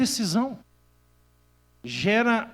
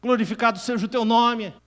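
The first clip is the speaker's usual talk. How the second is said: fervent prayer; 3 semitones higher than usual. Retold or imitated. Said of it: "Eu tava chorando e dizendo".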